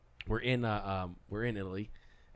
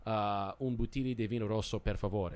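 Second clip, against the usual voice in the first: Italian phrase. Shown as a demonstration. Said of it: "I said".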